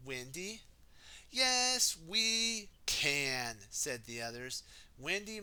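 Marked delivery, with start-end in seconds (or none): 1.3-3.6 loud, high rallying shout; team cheer. Acted. The whole team answering Wendy, loud and high. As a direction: cheer it out together.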